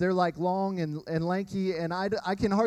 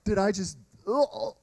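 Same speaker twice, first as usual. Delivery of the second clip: a hushed gasp of dread; quiet, stunned oh of horror; inner dread; 2 semitones lower, 3 dB quieter, slower than usual. Retold or imitated. Dad realizing he cut his son, hushed horrified oh. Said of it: "my insides were like".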